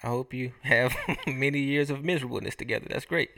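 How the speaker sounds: mock well-wishing with a little laugh; sarcastic. Real, not acted. Teasing a friend about his coming marriage, sarcastic. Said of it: "I'm obviously being sarcastic".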